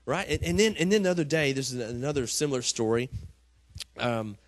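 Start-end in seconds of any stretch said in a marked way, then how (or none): none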